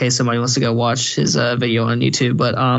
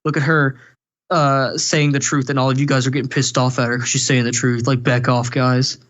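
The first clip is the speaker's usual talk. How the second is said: lightly swooning simp voice; imitating the simp defender; mock simp. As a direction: defend her like a gushing simp. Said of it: "he's like".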